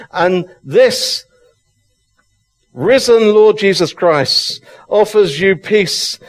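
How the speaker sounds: building passion in the pulpit; excited preaching. Real, not acted. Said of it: "I'm getting so excited".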